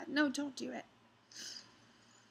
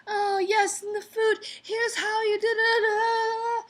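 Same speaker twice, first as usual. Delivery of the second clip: high, louder, slow sing-song flirt; 10 semitones higher, 6 dB louder, slower than usual. Retold or imitated. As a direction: sing it out like a tipsy lady flirting. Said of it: "and so she's like".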